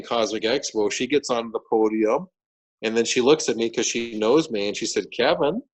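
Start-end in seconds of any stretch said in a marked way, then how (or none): 5.1-5.6 high, slow imitated disbelief; astonished. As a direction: draw it out in amazed, high-pitched disbelief. Imitates organizer's astonished reaction.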